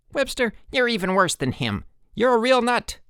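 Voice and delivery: high, rising-to-loud rant; angry outburst. A narrator's reading. Harold turns on Rudy, angrily yelling. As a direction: lash out in a high voice.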